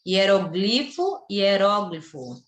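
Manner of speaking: "hieroglifo" stressed on GLI, then "hieróglifo" stressed on RÓ; slow, careful contrast between "hieroglifo" and "hieróglifo"; two pronunciations. Shown as a demonstration. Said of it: "têm dupla pronúncia". ("hieroglifo" com tônica em GLI, depois "hieróglifo" com tônica em RÓ)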